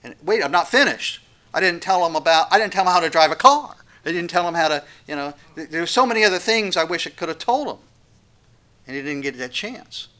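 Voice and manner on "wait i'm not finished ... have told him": pleading parent. Acted. Parent voiced being whisked away.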